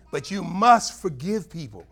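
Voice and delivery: slow, loud, must held long; firm preaching command; stress on must. Real, not acted. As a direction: press hard on the word must.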